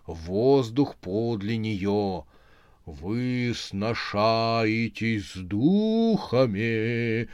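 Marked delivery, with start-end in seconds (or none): 2.9-7.3 very slow graveside intoning; sepulchral voice. Acted. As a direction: speak from beyond the grave. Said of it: "за могильным голосом вещала".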